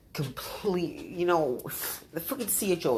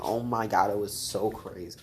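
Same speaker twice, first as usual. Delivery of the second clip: mock vlogger gush; 3 semitones lower than usual. Shown as a demonstration. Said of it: "I sound like a vlog".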